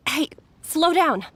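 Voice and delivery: put-on mild call to a rushing child; calling after. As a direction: gently tell the child to slow down.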